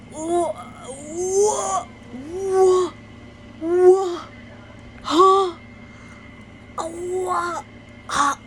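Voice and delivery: sputter, lost for words; stammering speechless. Real, not acted. Reacting to her cousin calling her dumb, sputtering in shock.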